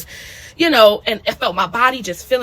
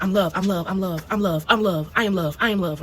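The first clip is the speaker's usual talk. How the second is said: repeated mantra; 3 semitones lower, 3 dB quieter than usual. Retold or imitated. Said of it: "I started repeating it".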